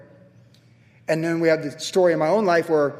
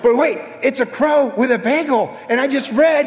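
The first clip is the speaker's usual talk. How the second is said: lightly voiced amazement, pitched higher; amazed; 6 semitones higher, 3 dB louder than usual. Pastor retells realizing the crow matches his devotion, mildly amazed. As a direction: marvel at the sign out loud. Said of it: "I'm like".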